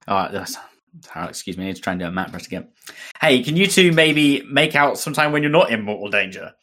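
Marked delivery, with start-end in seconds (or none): 3.2-6.5 mock Cockney accent for Matt; Cockney-tinged Matt voice. Reading Matt's line in a Cockney accent. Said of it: "why are you going Cockney?".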